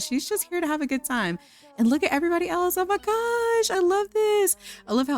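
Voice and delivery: high-pitched delighted squeal; excited gushing. Real, not acted. Host thrilled at the guests gathering for the party, excited gushing. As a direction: gush with your pitch soaring.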